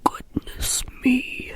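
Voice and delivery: whispered startled splutter; surprised splutter. Acted. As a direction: splutter it out, caught off guard. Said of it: "he spluttered in surprise".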